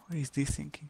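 hushed whisper. Real, not acted. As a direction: whisper it under your breath. Whispering in tense fight.

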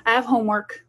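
mild inviting parent voice; gently enlisting the kids; asking kids for help. Shown as a demonstration. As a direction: warm it up like you really need them. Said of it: "sit down with their kids and say".

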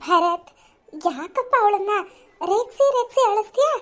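mother chides her teasing son, mildly; lightly voiced mother.

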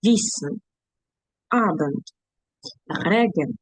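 Wissen, Abend, Regen, each stressed on its first syllable. Shown as a demonstration. Teacher showing learners the two-syllable stress rule, first syllables stressed. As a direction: punch the openings WIS-sen, A-bend, RE-gen, one word at a time. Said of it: "перший склад".

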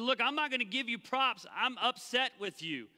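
a hint of exasperation; frustrated Paul. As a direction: scold the church. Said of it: "Paul's frustrated here".

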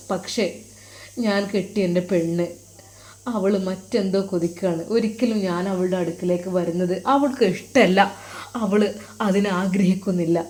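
subdued, heavy-hearted admission; sorrowful confiding. Acted. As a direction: confide a painful secret to your teacher. Troubled husband confides his marital grief.

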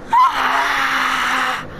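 startled cry with a voice crack; cracking yelp. Real, not acted. Player lifted up in the game, cracking cry. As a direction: let the yell crack. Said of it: "Voice crack anyway".

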